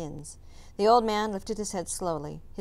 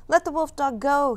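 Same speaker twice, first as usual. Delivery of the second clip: raised, higher-pitched harsh demand; 8 semitones higher, 7 dB louder than usual. A narrator's reading. Tao demands that the hunters release Ram, harshly. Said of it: "he said harshly".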